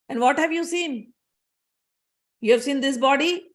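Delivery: probing questions, pitch climbing as they go; imitated wise questioner. Mad sage probing what Parshuram means, imitated wise questioning. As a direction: question them like a knowing sage. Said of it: "Intelligent people talk like this".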